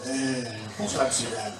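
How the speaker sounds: Jean Gabin impression. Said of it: "C'est Jean Gabin".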